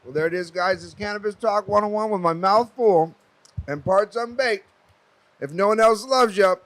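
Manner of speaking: loud, high, energetic sign-off; hyped show outro. Acted. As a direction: pump up the closing line.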